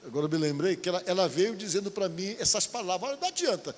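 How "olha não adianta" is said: much higher, taunting demon voice; possessing demon taunts, higher voice; demon's voice. Retold or imitated. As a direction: voice the spirit mocking the preacher. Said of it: "A pessoa que tava nela".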